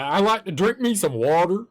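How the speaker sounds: hammed-up American, "water" rising at the end; mock American drawing out "water"; exaggerated American accent. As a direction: play up a folksy American accent. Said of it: "like, an American talking".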